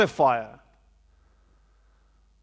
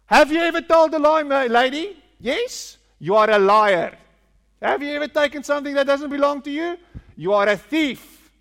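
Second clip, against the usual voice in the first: higher, louder, fast pushy evangelist; hammed-up street evangelist; 6 semitones higher, 4 dB louder than usual. Preacher mocking evangelists accosting a lady on the street, hammed-up and louder. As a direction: fire accusations at the lady, hammed up. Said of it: "And that's how we convert people".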